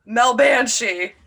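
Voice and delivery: slow, delighted gasp of discovery; excited gasp. Real, not acted. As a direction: savor each word with delight. Gasps at the new name.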